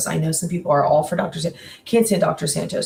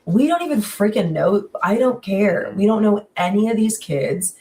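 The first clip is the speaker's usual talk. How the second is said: mildly heated, higher-pitched exasperation; exasperated rant; 3 semitones higher than usual. Retold or imitated. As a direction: re-enact your fed-up reaction to the show. Exasperated reaction to first episode.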